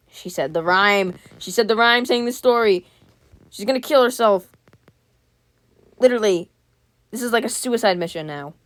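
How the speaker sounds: loud, high, dragged-out alarm; alarmed outburst. Real, not acted. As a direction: react in loud disbelief at the story. Alarmed reaction to the story.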